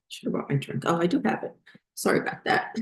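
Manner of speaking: hoarse, fading voice going out; losing voice. Real, not acted. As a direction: voice giving out, barely voiced. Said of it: "I started losing my voice".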